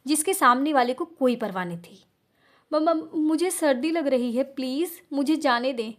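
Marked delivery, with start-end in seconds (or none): 2.7-5.9 teeth-chattering plea, slowed down; shivering stutter. Acted. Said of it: "कपकपाते नीले होठों के साथ". (ठंड से कांपती, हकलाती आवाज़)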